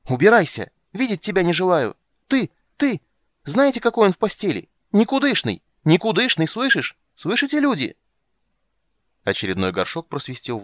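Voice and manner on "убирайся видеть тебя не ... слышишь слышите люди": very high, loud screaming to the crowd; hysterical shrieking. Acted. Blonde shrieking to the crowd about her lover. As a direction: shriek his shame to everyone.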